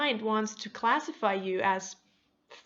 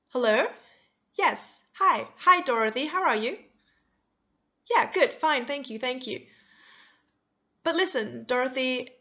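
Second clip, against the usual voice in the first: bright, chirpy hello to the agent, pitched up; extra friendly phone greeting; 2 semitones higher, 4 dB louder than usual. Retold or imitated. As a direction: gush over the customer service rep by name. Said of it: "She's being extra friendly".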